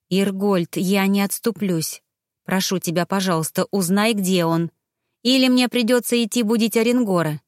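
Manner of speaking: ordinary delivery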